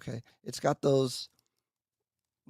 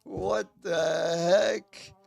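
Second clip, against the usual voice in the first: drawn-out, very slow and louder "what the heck"; stunned disbelief; 4 semitones higher, 8 dB louder, much slower than usual. Real, not acted. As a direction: let the disbelief stretch each word out loud. Shocked nobody heard music.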